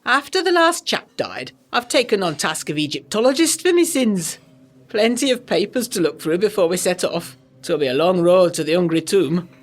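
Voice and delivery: a Yorkshire-ish Egyptologist, unhurried North Country vowels; North Country accent. Acted. The speaker tells the newcomers of the cursed dig, in a North Country accent. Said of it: "with a North Country accent".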